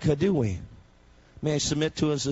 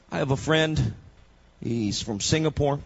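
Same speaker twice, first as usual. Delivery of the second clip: ordinary delivery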